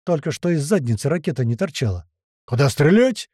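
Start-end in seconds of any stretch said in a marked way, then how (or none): 2.4-3.3 loud wailing question; a loud, excited yell asking where to shoot. Acted. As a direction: cry it out, eager to shoot. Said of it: "завопил Котлета".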